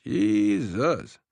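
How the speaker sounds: high, breathless gasp of shock. Acted. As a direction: gasp it out in disbelief. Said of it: "Yank gasped".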